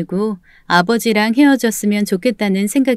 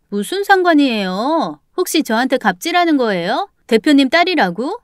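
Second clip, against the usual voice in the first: higher-pitched, indignant questioning; secretary talking back in a raised pitch; defiant secretary; 5 semitones higher than usual. Acted. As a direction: challenge her with rising, affronted questions. Secretary talks back in quarrel.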